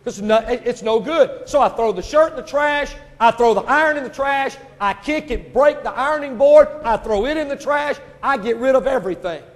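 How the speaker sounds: ranting through a tale of a useless iron; worked-up preacher. Acted. Preacher telling how he trashed his iron, worked-up.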